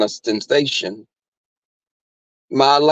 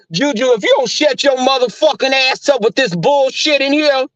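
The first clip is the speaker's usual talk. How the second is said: higher, hollering threat at the dog; heated threat; 10 semitones higher than usual. Retold or imitated. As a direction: cuss the barking dog out. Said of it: "I said".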